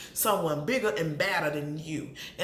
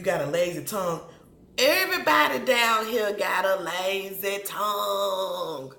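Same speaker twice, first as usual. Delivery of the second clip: imitating Marceau; 4 dB louder than usual. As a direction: mimic him calling the South lazy-tongued. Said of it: "he's saying that you".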